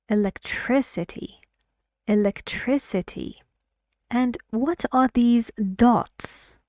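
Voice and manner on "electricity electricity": "Electricity" with the third syllable, tris, stressed. Shown as a demonstration. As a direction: model "electricity" as e-lec-TRIS-i-ty, twice. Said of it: "it means that the stress is on tris".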